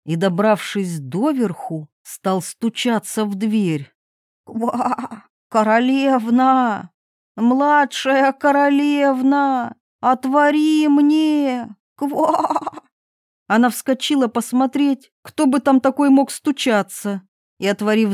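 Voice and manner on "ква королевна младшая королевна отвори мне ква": slow, drawn-out frog calling through the door; a little frog knocking and pleading. Acted. Frog calling the princess from behind the door.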